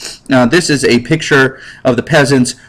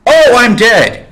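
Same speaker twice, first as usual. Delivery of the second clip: mock dying; 10 semitones higher, 4 dB louder, slower than usual. Guard overrun by peasants.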